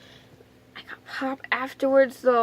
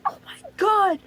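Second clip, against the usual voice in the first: high, whimpering cry, acted out; mock tearful outburst, pitched up; pained wail; 8 semitones higher than usual. Retelling the needle being shoved in, pained wail. Retold pain as needle goes in.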